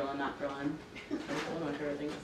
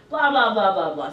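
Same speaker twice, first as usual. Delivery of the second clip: mock rambling rant; 2 semitones higher, 10 dB louder than usual. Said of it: "I'm just like".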